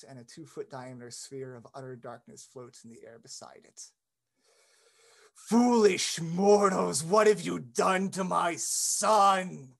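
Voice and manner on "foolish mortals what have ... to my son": booming slow villain voice; dark lord. Acted. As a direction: bellow it like an undead lich. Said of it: "he bellows in the room".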